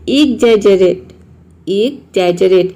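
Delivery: slow demo word. Shown as a demonstration. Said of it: "इसको pronounce करते हैं exaggerate".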